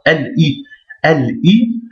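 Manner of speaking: "L I" in two detached pieces; a clear gap between L and "I"; separated, no liaison. Shown as a demonstration. Teacher demonstrating for students, "L I" separated. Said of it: "On sépare".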